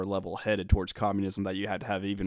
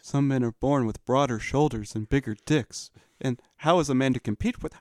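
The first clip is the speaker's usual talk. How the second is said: mock pundit; 3 semitones higher than usual. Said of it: "the J B P voice".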